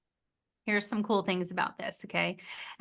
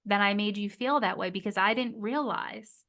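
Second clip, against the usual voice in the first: proper repair. Shown as a demonstration. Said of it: "which would be".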